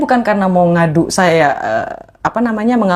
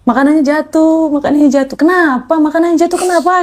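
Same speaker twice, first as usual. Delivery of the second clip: high-pitched, imitated crying plea; retold tearful wail; 9 semitones higher than usual. Crying on the phone to a friend over dropped food, imitated tearful wail. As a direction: wail it as a retold cry for help. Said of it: "Saya langsung nangis".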